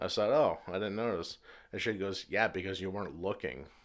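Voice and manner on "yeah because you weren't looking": snippy, bitchy, curt retort. Retelling an exchange over bagged groceries, mimicking her reply: mock-bitchy tone, imitating her. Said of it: "my tonality is mimicking hers the best I can. She had a bitchy tone".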